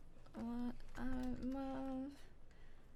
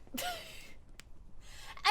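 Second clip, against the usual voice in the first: laugh; 6 dB quieter than usual. Real, not acted. Player laughs mid-game.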